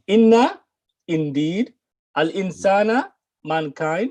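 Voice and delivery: each phrase lifted at the end, like "Inna?"; rising "Inna", "indeed", "insana", "mankind", with gaps for echoes; repeat-after-me prompt. Shown as a demonstration. Teacher leads class through the verse word by word, rising prompts. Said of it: "Let's continue".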